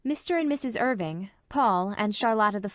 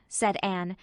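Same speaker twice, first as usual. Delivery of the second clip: usual speaking voice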